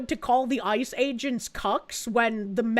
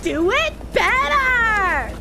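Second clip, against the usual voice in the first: mock shout; 7 semitones higher, much slower than usual.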